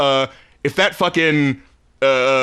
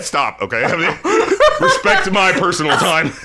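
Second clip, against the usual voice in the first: retold annoyed Batman. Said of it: "So he's going".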